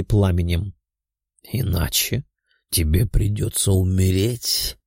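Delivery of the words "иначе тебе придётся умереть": creepy voice. Acted. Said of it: "жутким голосом сказал он".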